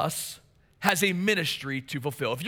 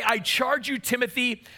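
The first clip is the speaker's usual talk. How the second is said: a touch higher, brisk imagined charge; higher mock charge; 4 semitones higher than usual. Shown as a demonstration. Preacher contrasting what Paul doesn't say, higher. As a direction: say it lightly as a fatherly aside. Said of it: "as a spiritual father".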